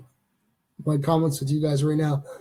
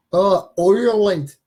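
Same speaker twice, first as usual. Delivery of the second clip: slow, loud, higher Irish accent; attempted Irish accent; 4 semitones higher, 7 dB louder, slower than usual. Shown as a demonstration. Host testing the accent for listeners, attempted Irish accent. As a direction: draw out "Ireland" in a put-on Irish brogue. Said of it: "if I got the right accent".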